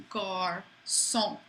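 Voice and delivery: garçon with a soft s sound, kar-SOHN. Shown as a demonstration. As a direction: say garçon with an s, not a k. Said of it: "makes it soft".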